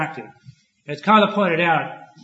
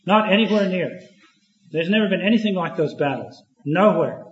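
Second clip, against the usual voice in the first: proud veteran. Retold or imitated. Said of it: "he writes as follows".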